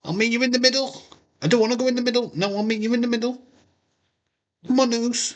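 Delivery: high, put-on voice for the wrestler; voicing Jay. Jay calling to Butch across the rings, high put-on voice. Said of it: "they're both in different rings".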